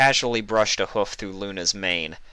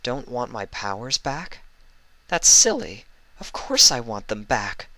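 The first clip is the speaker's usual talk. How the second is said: musing Luna; 5 semitones higher than usual. Acted. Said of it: "Luna pondered quietly".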